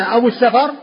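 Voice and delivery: السفر said as Safar; fatha on the fa. Shown as a demonstration. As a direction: say السفر with short a after f. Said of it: "فهو بالفتح وليس بالسكون".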